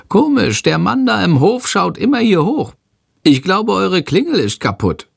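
the bat calls down from the ceiling lamp; bat calling out. Acted. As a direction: call out like a fluttering little bat. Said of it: "ruft Shandor".

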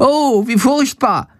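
high, slow horrified bat cry. A narrator's reading. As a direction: gasp it out in horror as the bat. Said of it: "ruft er entsetzt". (entsetzter Ausruf der Fledermaus, hoch und langsam)

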